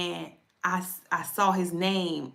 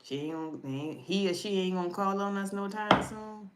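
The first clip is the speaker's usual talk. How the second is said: ancestors grumbling. Retold or imitated. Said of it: "They sitting around like".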